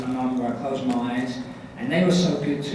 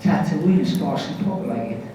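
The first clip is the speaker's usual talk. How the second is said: Darth Maul line in a Scottish accent; film villain with a Scottish accent. Shown as a demonstration. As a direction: deliver it in broad Scots. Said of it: "my line would have been like".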